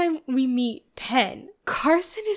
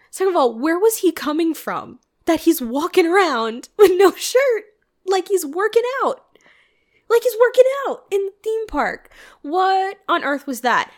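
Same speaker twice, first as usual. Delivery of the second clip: much higher, louder, laughing; incredulous laughing outburst; laughing rant; 6 semitones higher, 6 dB louder than usual. Real, not acted. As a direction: rant through giggles.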